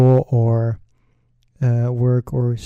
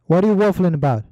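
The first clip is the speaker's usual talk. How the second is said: mock anger; 5 semitones higher, 4 dB louder, much faster than usual. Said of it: "in such anger".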